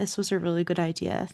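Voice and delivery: muttered quietly under the breath. Speaking as Poppy quietly to Kate in the car: under her breath. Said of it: "just under her breath".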